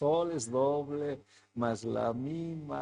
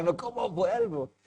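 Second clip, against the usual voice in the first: imitando su propia angustia, entre risas; preocupación exagerada entre risas; 4 semitones higher than usual. Retold or imitated. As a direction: repite la pregunta con susto fingido y risa. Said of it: "Pero estaba preocupado". (preocupación fingida, medio riendo)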